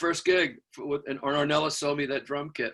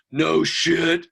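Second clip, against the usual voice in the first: loud, emphatic imitation; blunt disbelief; 7 dB louder than usual. Bass player reacting to the kid's confession, loud disbelief. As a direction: land both words hard.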